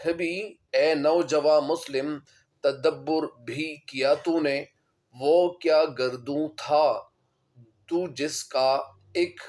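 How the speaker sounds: slow, measured verse delivery; poetry recitation. Acted. Teacher recites Iqbal's verse to students, slow poetic recitation. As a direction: recite the couplet slowly, word by word.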